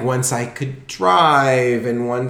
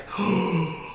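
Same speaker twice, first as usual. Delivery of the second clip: starstruck gasp; 8 semitones higher, 6 dB quieter than usual. Retold or imitated. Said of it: "I was like".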